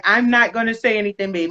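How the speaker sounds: light, quick attempt at a Jamaican accent; hint of a badly imitated Jamaican accent. Wife quoting husband before radio interview, badly faked Jamaican accent. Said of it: "that's my really bad Jamaican accent".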